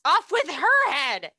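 hammed-up royal yell; mock royal shout. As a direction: roar the order like a furious queen. Queen shouting in retold story.

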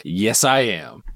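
slow, lightly voiced bear; Winnie the Pooh. Quoting Pooh owning up, slow lightly voiced bear. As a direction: say it slowly, a hint of the bear. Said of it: "later on he's like".

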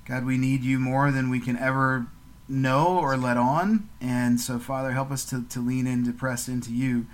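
steady, earnest prayer voice; gentle podcast prayer to God; closing prayer. Real, not acted. Prayer continues.

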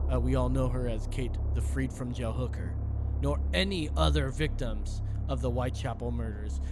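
true crime narration. A narrator's reading. Host reading out the kidney evidence, low narration. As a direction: read the case out in a low storyteller's tone.

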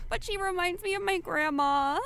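high, lightly tearful voice; a child holding back tears; crying girl. Acted. Girl sees the drawing of grandma, mild tearful voice. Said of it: "She's gonna start to cry again".

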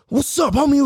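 high-pitched imitated fury; mad challenge. Mad kid taking on the sixth graders, heated challenge. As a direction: call them out, worked up. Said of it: "I get so fucking mad".

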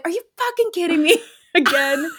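high, laughing through the words; laughing disbelief. Retold or imitated. Wife laughing at husband in costume again. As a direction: crack up while scolding. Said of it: "she's like".

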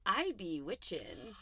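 slow imitation Jamaican accent; attempted Jamaican accent. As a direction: stretch it out in a mock Jamaican accent. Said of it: "in a thick Jamaican accent".

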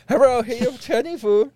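put-on high, loud Chinese-accented delivery man; mock Chinese accent. Delivery man at the door, mock Chinese accent. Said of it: "this is a white dude".

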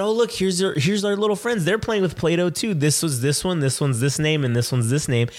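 high-pitched kiddie cheer, easing down; coaxing cheer. Retold or imitated. Dad showing crying daughter her little friends, cheery. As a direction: act upbeat for a tearful child.

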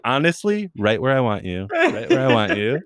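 chuckling through a smug teasing line, with a pitch jump at the start; half-laughing, playfully triumphant. Retold or imitated. Telling puzzled commenters she fooled them, laughing.

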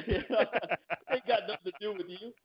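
high, slow mock threat; movie tough-guy line. Samuel Jackson telling off the diner manager, slow. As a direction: stretch it like a cool hitman. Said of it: "he's like".

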